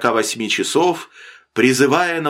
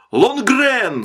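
high, drawn-out call of panic; terrified cry; 10 semitones higher than usual. A narrator's reading. Drowning man calls to the sailor on the pier, terrified cry. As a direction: cry out for rescue in mortal fear. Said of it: "закричал смертельно перепуганный Мэннерс".

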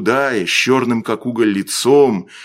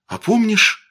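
put-on gently wistful boy, pitched up at first; sad; 6 semitones higher, slower than usual. A narrator's reading. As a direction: ask with a touch of sadness. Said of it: "печально прибавил Костя".

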